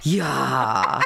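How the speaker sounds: "Yeah" dropped low with a falling tune. Shown as a demonstration. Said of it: "When you say it lower".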